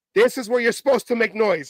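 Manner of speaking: ordinary talk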